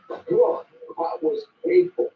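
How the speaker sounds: high, loud exasperated complaint; pained disbelief; cringing groan. Acted. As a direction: wince at the awkward scene. Cringing at the scene.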